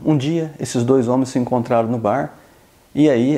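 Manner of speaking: ordinary talk, nothing marked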